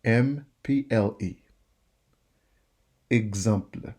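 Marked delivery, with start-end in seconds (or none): 3.1-3.9 "Exemple" said the French way, soft final; French model word. Shown as a demonstration. Teacher models the French word for students. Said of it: "E X E instead of A".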